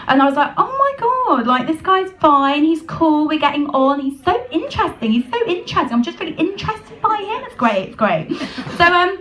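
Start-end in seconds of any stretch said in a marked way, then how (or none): 0.6-8.3 high, breathless gushing about a new guy; gushing to herself. Retold or imitated. Telling herself she's smitten, gushing high. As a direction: gush like a smitten girl.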